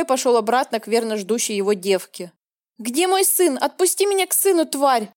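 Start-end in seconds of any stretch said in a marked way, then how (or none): 2.8-5.1 high, raw scream for her son; frantic yell. Acted. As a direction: yell at them, pitch way up. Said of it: "орала я не своим голосом". (кричит не своим голосом)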